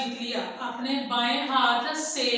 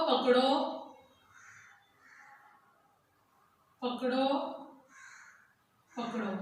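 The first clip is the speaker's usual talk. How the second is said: each word alone, long pauses, fading softer; dictation pace; 6 dB quieter than usual. Shown as a demonstration. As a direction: dictate word by word, dropping away. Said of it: "पहली line पे लिखेंगे पकड़ो".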